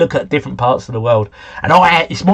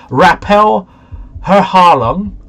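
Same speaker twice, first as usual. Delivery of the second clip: put-on louder, higher German-accented sign reading; 3 semitones higher, 4 dB louder, slower than usual. Player reading a foreign sign to viewers, German accent. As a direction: read it with a bit of German accent. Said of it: "putting a bit of a German accent on".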